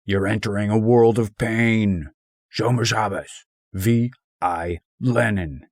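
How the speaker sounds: hammed-up angry quote; Walter blowing his top. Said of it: "Every time he blows his top".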